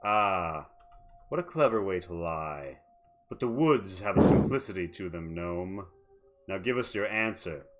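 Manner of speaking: wolfish grin. Acted. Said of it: "makes a wolfish grin and says".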